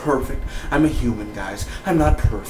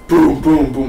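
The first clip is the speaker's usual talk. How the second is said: imitated gunshots; 3 semitones higher, 5 dB louder, slower than usual. Reviewer retelling a shooting, loud imitated gunshots. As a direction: punch out booms like gunfire.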